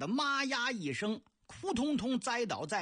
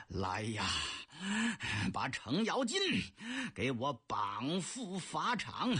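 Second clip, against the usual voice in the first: low, slow angry royal order; emperor angry; 4 semitones lower than usual. Acted. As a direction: drag out the death sentence with menace. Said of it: "杨广生气呀". (杨广恶狠狠地下令)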